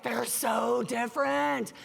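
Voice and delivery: slow, drawn-out mock lament. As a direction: stretch it out as a hammed-up complaint. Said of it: "he's, like, just lamenting".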